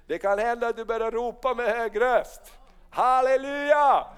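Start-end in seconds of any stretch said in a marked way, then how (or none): 2.9-4.1 drawn-out halleluja, loud and high; preacher's ringing halleluja; joyful shout. Real, not acted. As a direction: cry out halleluja in praise. Preacher calls out after shouting line.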